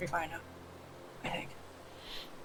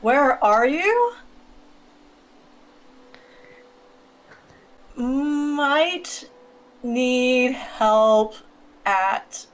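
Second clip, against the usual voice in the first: put-on Valley Girl accent; 2 semitones higher, much slower than usual. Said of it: "put on an accent".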